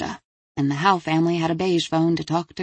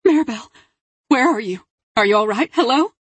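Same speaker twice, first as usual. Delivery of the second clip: higher, urgent questions, voice raised; frantic mother; 6 semitones higher, 5 dB louder than usual. A narrator's reading. Delia calls to her crying daughter, frantic. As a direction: fire anxious questions down the line.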